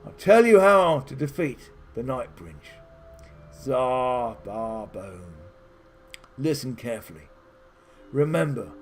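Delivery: a hint of a wise hermit giving solemn instructions; solemn old wizard advising.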